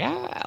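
small, very high-pitched mock scream. Imitating Angela screaming at the camera, mock scream. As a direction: squeal a scream without volume. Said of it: "She starts screaming".

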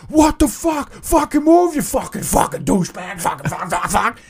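imitating a friend screaming from the car; mock scream. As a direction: scream it at him, furious.

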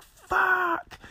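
very high squeaked mock expletive; drawn-out falsetto cry of comic pain; pained curse. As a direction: squeal it as if just hit a wall. Acted curse after hitting the wall.

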